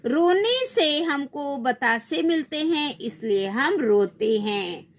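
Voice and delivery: put-on whiny child. Child character answers in story.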